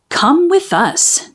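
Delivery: slow, sugary lure; sweet coaxing. Acted. Eels luring the mermaid to the witch, slow sweet coaxing. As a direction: coax her slowly, sweet and sly. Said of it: "they coaxed sweetly".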